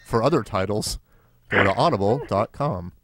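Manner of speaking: measured sponsor-announcer parody; mock ad read. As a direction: deliver it as a straight-faced plug.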